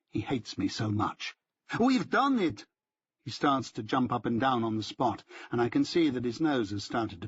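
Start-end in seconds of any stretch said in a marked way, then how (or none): 1.8-2.7 high, jubilant cry; triumphant. A narrator's reading. Benjamin gloats at Rick, jumping for joy. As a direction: crow it out in triumph.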